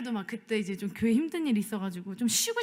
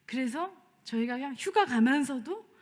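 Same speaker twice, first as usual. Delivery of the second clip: usual speaking voice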